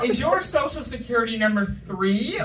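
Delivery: loud, slow teasing questions about age; hammed-up prying at an old person; mock nosy questions.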